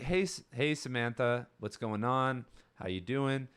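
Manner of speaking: relaxed, easy hello; mellow greeting. Shown as a demonstration. Showing the calm way to greet Samantha, mellow. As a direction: greet her like a normal friend. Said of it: "probably a little bit more mellow".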